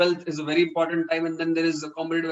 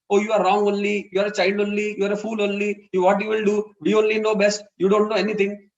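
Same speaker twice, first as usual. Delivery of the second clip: put-on louder, lecturing scold at a child; scolding parent; 4 dB louder than usual. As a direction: talk down at the child like a know-all parent.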